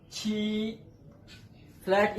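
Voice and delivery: छी said with a level, flat tone; flat chhi. Shown as a demonstration. Teacher showing students the flat Chinese छी. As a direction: keep छी even in pitch, aspirated. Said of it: "लेकिन पढ़ेंगे इसको".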